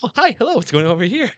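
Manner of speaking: put-on high, brash old Hollywood reporter; gushing glamorous Hollywood columnist; pushy gossip reporter. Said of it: "they just assault everyone they talk to".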